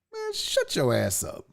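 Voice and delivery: low, slow brush-off; dismissive retort. Real, not acted. Brushes someone off, first take.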